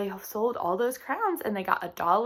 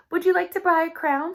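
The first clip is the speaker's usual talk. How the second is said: put-on high, louder hopeful child's question; hopeful girl; 8 semitones higher, 8 dB louder than usual. Lily asking Joe to buy a crown, high and hopeful. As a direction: ask it up high, hoping for a sale.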